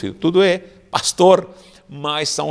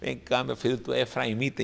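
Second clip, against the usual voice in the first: a low menacing hush; quietly threatening soldier; softly sinister interrogation; menacing whisper-soft; 6 semitones lower, 11 dB quieter, faster than usual. Retold or imitated. Soldier confronting an Ephraimite.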